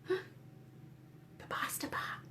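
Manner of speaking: slow gasping whisper; horrified whisper. Real, not acted. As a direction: breathe it out in dread. Warning the children, hushed horror.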